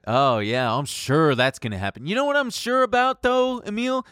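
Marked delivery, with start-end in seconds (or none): 2.1-4.0 sarcastic. Acted. Sarcastic setup, pitch way up.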